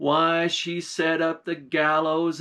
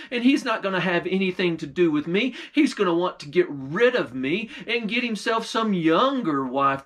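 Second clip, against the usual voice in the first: upset queen; 3 semitones higher than usual. Acted. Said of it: "she got angrier and she got upset".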